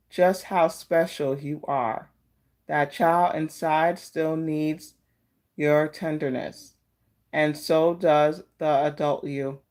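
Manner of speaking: slow, gentle reading of a card message; oracle card reading. Acted.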